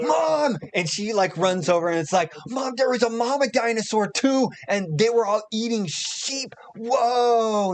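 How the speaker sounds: high, loud breathless telling; excited kid. Acted. Boy running to his mother with news, high and loud. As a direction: rush to tell mom.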